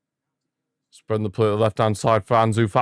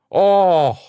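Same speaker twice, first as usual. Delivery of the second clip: shocked cry; 9 semitones higher, 6 dB louder than usual. Real, not acted.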